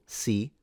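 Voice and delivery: si said alone as the stressed syllable. Shown as a demonstration. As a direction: isolate si. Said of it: "the stress is on the second syllable".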